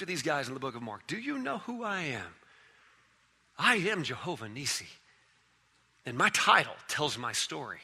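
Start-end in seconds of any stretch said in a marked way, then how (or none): 1.1-7.8 much softer, low and searching; hushed question. Acted. Pastor voicing Jesus asking the disciples, hushed and searching. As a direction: lean in and ask it almost under the breath.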